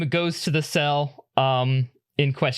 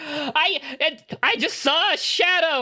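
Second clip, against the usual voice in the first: disturbed, shaken; 13 semitones higher than usual. Acted. Prisoner Bashir telling the captain he only saw a shadow, panicked. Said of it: "You seem deeply disturbed".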